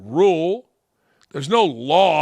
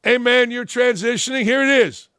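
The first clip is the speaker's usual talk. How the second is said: imitating Riley agreeing; 5 semitones higher than usual. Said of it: "I've said it to Riley, and she's agreed".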